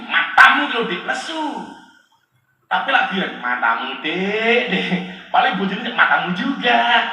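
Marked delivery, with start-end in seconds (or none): 0.1-1.4 flattering praise. Shown as a demonstration. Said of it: "Jenengan kita puji". 3.4-4.9 softly teasing compliment; complimenting intonation. Shown as a demonstration. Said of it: "Hanya beda intonasi". 5.9-7.0 mock comeback with the same words; retorting intonation. Shown as a demonstration. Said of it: "Hanya beda intonasi".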